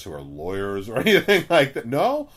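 high, loud cheery salesman; salesman pitch. Pretend. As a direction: fake cheer to hook her. Mock salesman to old lady.

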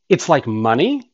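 retold child's dawning question, rising at the end; tentative realization. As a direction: ask it as a child just catching on. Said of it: "she looks at me and she goes".

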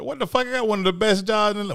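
squeaky mock outrage as the coach; Mike Tomlin impression. Imitating the coach, cohost says he sounds just like him. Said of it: "why I automatically go to that voice".

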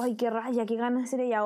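understated, grudging envy; mildly acted envious longing; envious wish. Shown as a demonstration. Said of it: "el tono de voz ya le cambia el sentimiento".

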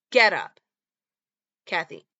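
normal talking voice

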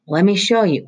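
lightly voiced nervous boy; boy's voice. A narrator's reading. Roy offering help.

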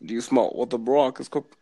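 a hint of Obama, mostly his own voice; lightly voiced Obama speech; understated Obama impersonation; Barack Obama impression. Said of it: "I can even try to do Barack".

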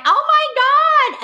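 high, loud, drawn-out gasp of delight; excited gush. Retold or imitated. Women at a party learn her job, slow excited gush. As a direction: stretch it out slow and thrilled.

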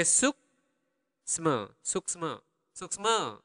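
suksma split slowly in two parts; slow demo. Shown as a demonstration. Teacher slowing the word for learners to copy, slow. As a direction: say SUKSMA slowly, pausing after suk.

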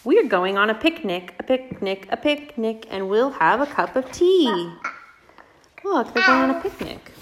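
singsong picnic chant; bouncy repeated read-aloud; reading to a toddler. Acted. Reads picture book to toddlers.

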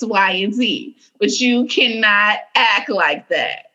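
lightly imitated patient, frustrated mother; measured mock-stern reasoning, never yelling; calm stern mom. Mom talking down a tantrum, calm but lightly stern. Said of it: "That's how calm she is".

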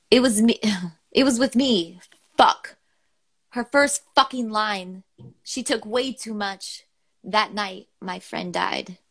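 measured recital of a serious poem; poem reading. Acted. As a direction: read each line as a heartfelt spoken-word piece. Reads a poem aloud.

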